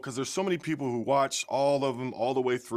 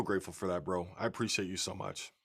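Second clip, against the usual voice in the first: emotional thanks; 5 semitones lower, 6 dB quieter than usual. Real, not acted. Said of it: "I'm feeling emotional".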